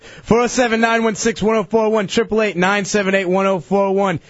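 brisk call-in plug, running the numbers; radio announcer. Real, not acted. Host urging listeners to phone in, announcer voice. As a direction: sell the coming game to listeners.

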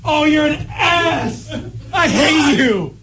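angry yell. Real, not acted. Yelling at coworkers.

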